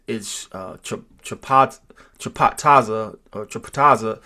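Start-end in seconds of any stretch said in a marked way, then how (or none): 2.2-3.2 chapataza in careful parts, cha-PAT-TA-za; broken-up pronunciation. Shown as a demonstration. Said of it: "your speech pattern is". 3.5-4.2 chapataza run together as chuh-puh-TA-za; chapataza, lower and joined up; run-together pronunciation. Shown as a demonstration. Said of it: "your speech pattern is".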